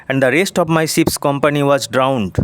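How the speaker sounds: slow, careful read-aloud of English; deliberate classroom reading pace; slow textbook reading. Shown as a demonstration. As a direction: read each word out slowly for the class. Teacher reads English text aloud.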